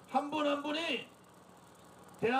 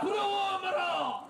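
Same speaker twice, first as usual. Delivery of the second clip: slow rally shout; 3 semitones higher, slower than usual. Real, not acted. Leader call.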